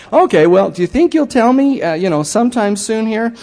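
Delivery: half-joking plea for a hint; exasperated plea. Retold or imitated.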